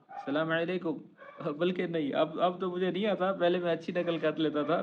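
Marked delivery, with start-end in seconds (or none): 0.1-0.9 lightly imitated Indian-accented greeting; half-hearted go at an Indian accent. Shown as a demonstration. Teacher imitating how an Indian says salam, in a light Indian accent. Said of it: "یا Indian ہے تو وہ ایسے بولے گا".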